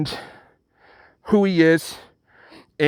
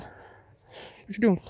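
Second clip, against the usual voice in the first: drawn-out pestering; 5 semitones higher, 8 dB quieter, much slower than usual. Retold or imitated. Same question, drawn out and faded.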